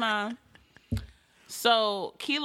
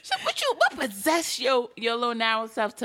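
laughing mock scolding mother; a hint of a fed-up mother, chuckling; mom scolding. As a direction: scold him like an exasperated mom, half laughing. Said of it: "so she's like".

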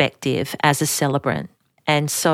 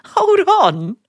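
laughing disbelief; 13 semitones higher, 5 dB louder than usual. Retold or imitated. Brother asks her to officiate.

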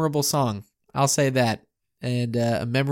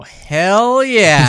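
excited exclamation; 7 semitones higher, 9 dB louder than usual. Real, not acted. Emphatic yes to the cereal question.

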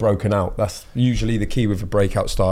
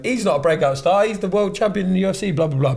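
higher-pitched voice of protesting fans; mock UFC fans; 8 semitones higher than usual. Co-host voices UFC fans objecting, mock fan voice. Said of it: "there'll be U F C people, what, what accent do they have?".

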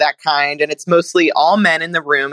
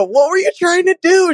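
very high, incredulous mock wail; retold crying-laughing; 13 semitones higher than usual. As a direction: mimic a question squeaked through helpless laughter. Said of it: "we were crying, laughing, going".

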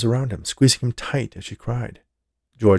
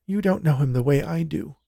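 cautioning; 6 semitones higher, 3 dB quieter than usual. A narrator's reading. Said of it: "she cautioned".

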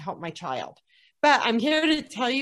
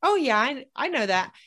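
mock know-it-all brush-off, louder; imitating a parent brushing off advice, louder; dismissive; 5 semitones higher, 4 dB louder than usual. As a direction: shrug it off like an impatient parent. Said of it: "while that sounds very simple".

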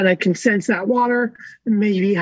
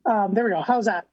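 muffled, boxed-in sound; like talking from inside a closet. Real, not acted. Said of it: "You sound like you're in a".

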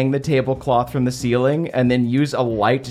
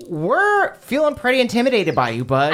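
mock intimidated; 10 semitones higher than usual. Mock intimidated address to rival.

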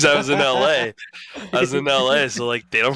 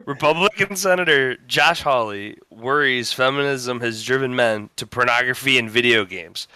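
steady newscaster delivery; deadpan news read; news anchor read. Acted. Reads a mock news story.

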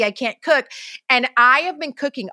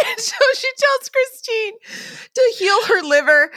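excited retelling; 10 semitones higher than usual. Real, not acted. Retelling the funny moment.

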